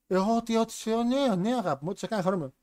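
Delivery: mock indifferent wife, starting high and settling down; Brandy. Wife answering husband who quits his job, blandly agreeable. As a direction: agree to anything without engaging. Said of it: "πολύ αδιάφορος χαρακτήρας".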